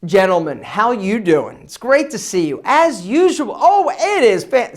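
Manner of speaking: full projected voice; confident projected greeting; projecting. Shown as a demonstration. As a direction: fill the room with it. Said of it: "see, now I'm projecting".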